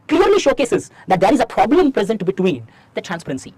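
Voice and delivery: slow, measured dictation of a model answer. Acted. Teacher to students taking notes, slow dictation. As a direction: spell the answer out slowly so students can write it.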